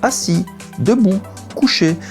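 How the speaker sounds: high, sing-song dog commands. Shown as a demonstration. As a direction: chant the commands brightly to a dog. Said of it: "parler d'une manière très chantante".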